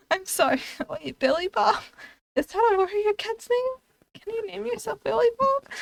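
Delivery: high, giggly incredulous questioning; laughing disbelief. Real, not acted. Streamer questioning a silly warrior name, laughing in disbelief. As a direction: question it while cracking up for real. Cracks up at the name Billy Bob.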